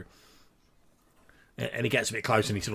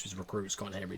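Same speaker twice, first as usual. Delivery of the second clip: whispered aside; 6 dB quieter than usual. Acted. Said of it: "he says, in a whispered voice".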